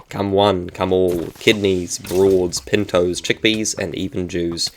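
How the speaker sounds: a hammed-up sermon voice for the Discord rules; mock-solemn rules reading. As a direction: read it like a pompous church notice. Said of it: "lots of jokes into the rule ser-, server".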